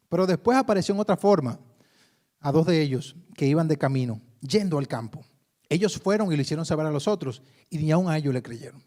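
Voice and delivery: lectura proclamada, más fuerte; lectura bíblica. Acted. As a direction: leer la Escritura a la congregación. Reads scripture aloud. (proclamando el texto ante la iglesia)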